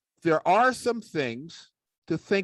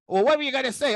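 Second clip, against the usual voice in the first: puppet sidekick; 9 semitones higher, much faster than usual. Acted. Puppet asks.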